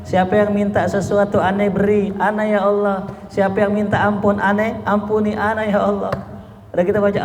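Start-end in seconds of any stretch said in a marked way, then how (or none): 0.1-6.1 voicing God's call. Allah's voice voiced in sermon.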